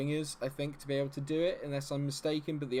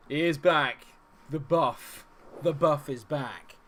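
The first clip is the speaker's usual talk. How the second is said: loud, higher, in punchy phrases; triumphant announcement; 4 semitones higher, 10 dB louder, slower than usual. Real, not acted. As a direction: proclaim the comeback in separate bursts. Celebrates the player's return.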